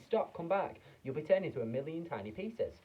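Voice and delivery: high, loud panicked plea; mother shrieking at her son to come back; frantic mother. A narrator's reading. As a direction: beg him to stop, alarmed. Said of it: "screamed Missus T V".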